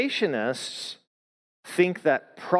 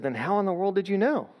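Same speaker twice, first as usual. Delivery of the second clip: higher-pitched, incredulous retold question; baffled amazement; 6 semitones higher than usual. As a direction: ask it in replayed bewilderment. Retells his amazed question to Nathan.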